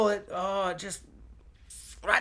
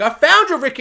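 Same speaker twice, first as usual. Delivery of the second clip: higher, louder announcing call; mock helicopter man; 8 semitones higher, 7 dB louder than usual. Vlogger voices helicopter man finding Rick, higher and louder call. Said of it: "a man's like".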